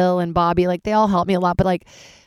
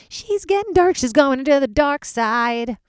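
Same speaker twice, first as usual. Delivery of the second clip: high then slow spooky voice; mock sinister announcer; hammed-up ominous; 9 semitones higher, slower than usual. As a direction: play the doom narrator for laughs. Mock ominous self-commentary.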